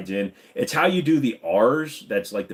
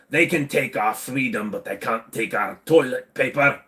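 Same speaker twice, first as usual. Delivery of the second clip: put-on Scottish accent. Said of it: "do a Scottish accent".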